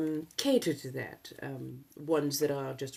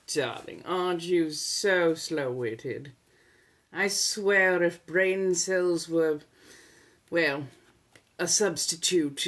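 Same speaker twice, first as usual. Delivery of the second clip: slow, drawn-out condescension; condescending put-down; slower than usual. Acted. Insulting a slow-witted heckler with slow, theatrical condescension. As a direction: savor each word of the insult, pausing often.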